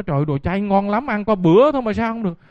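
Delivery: mild retold scolding.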